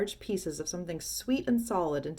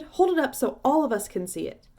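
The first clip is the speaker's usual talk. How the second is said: shouting from the crowd; 6 semitones higher, 5 dB louder than usual. Acted.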